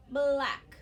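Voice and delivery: "black" said loud and clear; clear example word. Shown as a demonstration. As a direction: announce "black" loudly. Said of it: "if I did the word".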